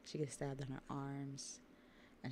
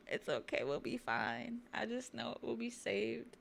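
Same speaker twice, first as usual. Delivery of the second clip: lightly acted brave front, climbing higher toward the end; putting on bravery; 6 semitones higher than usual. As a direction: reassure while hiding fear, pitch rising into a pleading 'right?'. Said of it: "she was acting s-, brave".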